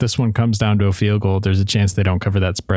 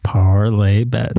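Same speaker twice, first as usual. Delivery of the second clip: slow breathless whisper of a reveal; dramatic whisper; 3 semitones lower, much slower than usual. Pretend. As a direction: whisper it like a secret.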